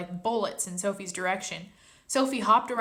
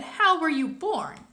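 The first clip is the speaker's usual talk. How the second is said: put-on young girl voice; 8 semitones higher, 5 dB louder, slower than usual. Sophie's curious question.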